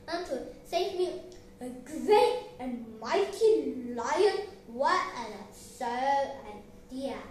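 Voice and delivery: loud, emphatic mocking lion; scornful. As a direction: scoff grandly at a tiny creature. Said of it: "he said scornfully".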